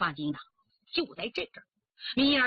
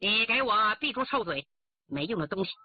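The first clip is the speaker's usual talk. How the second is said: stern rebuke; 3 semitones lower than usual. Acted. Slaps her and scolds.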